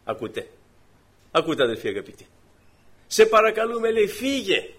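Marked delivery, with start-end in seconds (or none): 3.1-4.7 emphatic dismissal. Retold or imitated. Townspeople asking Jesus leave.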